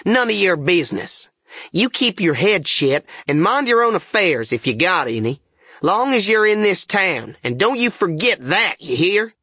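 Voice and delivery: irritated scolding, pitched high; ripping out angrily. A narrator's reading. King telling the boy to mind his business, angry. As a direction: snap it out to shut the questioner down. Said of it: "whirls on me and rips out".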